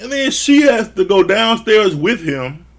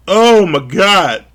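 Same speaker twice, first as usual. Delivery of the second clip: stunned disbelief; 7 dB louder, much slower than usual. Real, not acted. Reacting in disbelief.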